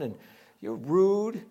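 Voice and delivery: mock hurt mother, lightly acted; mildly offended. Preacher imagining Mary scolding Jesus at the wedding, mildly offended. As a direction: play at being a slighted mom. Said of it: "We don't see her getting offended".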